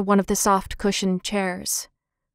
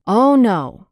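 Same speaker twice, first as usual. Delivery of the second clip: quick, firm, louder no; quick reply; 5 dB louder than usual. Acted. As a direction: cut in fast and firm. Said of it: "replied Henry quickly".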